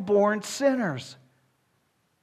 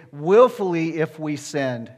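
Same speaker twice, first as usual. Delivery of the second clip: "Willfully" leaned on, slow and louder; stress on WILLFULLY; 3 semitones lower, 5 dB louder, slower than usual. Shown as a demonstration. Preacher showing the Greek word order, emphatic "Willfully". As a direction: put the emphasis up front on "Willfully". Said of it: "with emphasis. It's emphatic".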